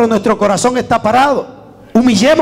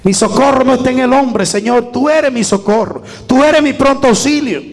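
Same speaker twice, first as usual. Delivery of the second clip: fervent prayer, building; 3 semitones higher than usual. Shown as a demonstration. Preacher models a prayer for the congregation, starting hushed and building to a fervent cry. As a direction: pour your heart out to God, rising to a cry. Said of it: "Vaya ahí delante".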